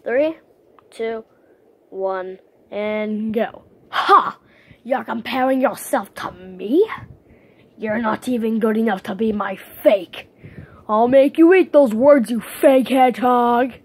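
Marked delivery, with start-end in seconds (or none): 3.9-13.7 sharp laugh, then a loud hissed threat; rival hedgehog taunt. Acted. Hedgehog character mocking a fake, loud scornful threat. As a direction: sneer at the copycat, then threaten. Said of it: "The voice might come out".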